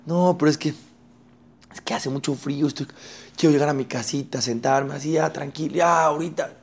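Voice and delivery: a hint of a lazy student; lazy excuses. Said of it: "eso se llama flojera".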